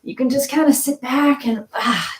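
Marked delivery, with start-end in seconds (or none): 1.8-2.1 demonstrated sigh of release; relaxing sigh. Shown as a demonstration. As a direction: let out an easy "ah" as you settle back. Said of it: "do one of those".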